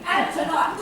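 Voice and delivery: laughing. Acted. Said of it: "I'm weeping".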